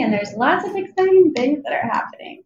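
secretive whisper of exciting news; hushed conspiratorial whisper. Real, not acted. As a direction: whisper it like a teaser. Teasing upcoming news.

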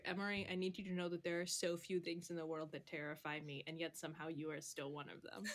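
soft, quick whisper. Acted. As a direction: hush it so only she hears. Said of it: "Cal's just gonna kinda whisper".

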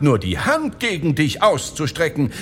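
high, goading woman's voice; wife calling out. A narrator's reading. Wife urges husband to hit the thief, high calling voice. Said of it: "rief sie ihrem Mann ... zu".

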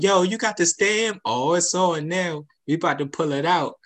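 mildly acted excitement; hyped. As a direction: imitate the guys getting hyped up. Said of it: "all the guys were hyped".

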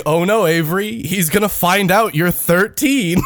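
slow, over-explicit mock worry; slow articulation. Imitating Ed teasing Avery at checkout, slow and explicit. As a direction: spell it out slowly, imitating a friend. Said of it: "I was articulating so slow".

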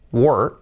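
"were" as short "wur"; single-sound were. Shown as a demonstration. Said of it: "Uno es un sonido". ("were" en un solo sonido, sin o)

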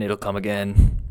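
a touch of panicked wailing. A narrator's reading. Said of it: "Wyke wailed".

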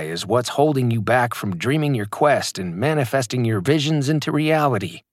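lightly hammed guru preaching, slowing on key phrases; understated impression of a hype coach; mock motivational speaker. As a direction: parody the self-help sermon without going over the top. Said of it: "they cry".

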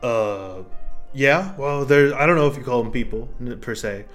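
an ancient mushroom speaking after centuries; gruff mushroom voice. Acted.

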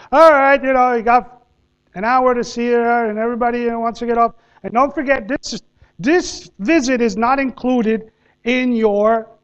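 calling out to the whole bus; bus driver announcing. Retold or imitated.

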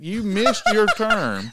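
high, slow, drawn-out mock reply; mock incredulity. Homeowner answers the drunk man's excuse, mocking disbelief.

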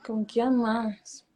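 slow whispered aside to herself. Real, not acted. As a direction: whisper it slowly, thinking aloud.

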